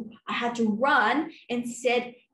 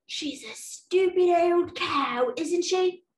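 sneering neighbour; 5 semitones higher, slower than usual. Retold or imitated. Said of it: "I could overhear Mister Bannerman say".

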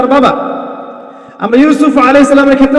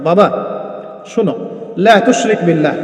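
softer, lower fatherly address; tender, affectionate; 6 semitones lower, 6 dB quieter than usual. Retold or imitated. Luqman advising his son, tender and hushed. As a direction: speak gently, as if to your own child. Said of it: "আদর করে বলছেন".

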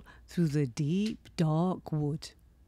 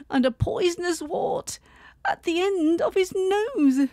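high mouse voice; 5 semitones higher, 3 dB louder than usual. Acted. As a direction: stretch out the scary details, high.

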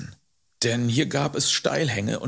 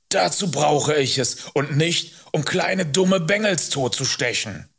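lightly voiced scolding man, higher; Hubert, irritated rider; 4 semitones higher than usual. Man denies he would stab boy, with irritation. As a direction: scold with emphatic annoyance.

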